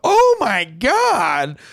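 slow, drawn-out oh my God; shocked gasp. Retold or imitated. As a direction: react to a gruesome sight. Medic sees the wound.

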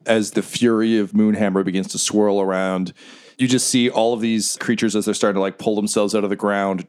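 measured dramatic scene setting, slowing down; game master narration. Acted.

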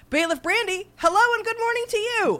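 high sing-song greeting. Acted. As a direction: greet the bailiff in a bright high lilt. Judge greets bailiff.

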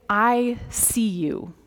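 slow, heartfelt greeting; deliberate and tender; sincere greeting. Acted. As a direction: say it slowly, letting each word land. Solemn Na'vi greeting, acted slowly.

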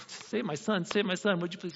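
softly begging "save my son"; a touch of a desperate father; pleading father. Retold or imitated. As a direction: plead for your son, quietly. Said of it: "He's pleading with Jesus".

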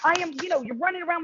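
high, whiny protest; mock protest. Actress protests to the wardrobe designer, high and whiny. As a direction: pitch up like a baffled whine. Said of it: "And I was like".

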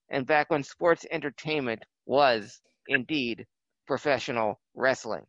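formal, measured broadcast intro; show host intro. Acted. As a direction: set the scene like a retro TV host.

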